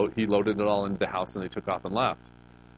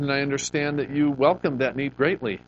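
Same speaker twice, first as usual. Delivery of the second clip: sarcastic jab; 5 semitones higher than usual. Retold or imitated. Sarcastic jab at the offended woman.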